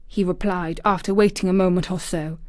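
ordinary delivery, nothing marked

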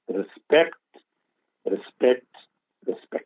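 "Respect, respect, respect" spaced out with pauses; word repeated three times. Shown as a demonstration. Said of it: "saying the word respect three times".

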